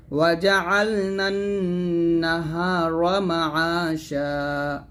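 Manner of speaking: slow melodic tajweed chant; Quran recitation. Shown as a demonstration. Teacher recites the verses for students, slow chant. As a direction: draw each verse out in a slow melodic line.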